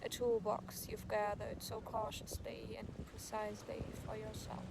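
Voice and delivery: unhurried, understated poem recital; poem reading. Acted. Poet asks if there is a place you'd love, unhurried recital. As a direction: pose each line as an open question, pausing between. Reads another poem aloud.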